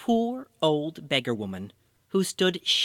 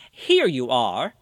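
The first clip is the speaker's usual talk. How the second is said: slow, louder call from a carriage; 6 dB louder, slower than usual. Acted. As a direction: call it out slowly and clearly. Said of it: "he called".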